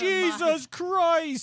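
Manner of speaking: put-on high, slow, shocked Jamaican accent; drawn-out Jamaican exclamation. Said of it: "You said it like that in a Jamaican accent".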